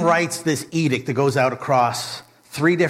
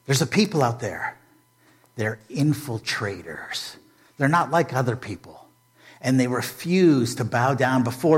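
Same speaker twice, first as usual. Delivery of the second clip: care and concern. Retold or imitated. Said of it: "his face changes from rage to care and concern".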